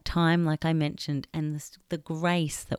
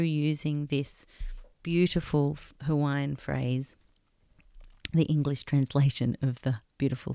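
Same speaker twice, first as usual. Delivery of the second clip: guided meditation. Acted. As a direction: ease the listener into stillness, gently. Leads a heart-space meditation.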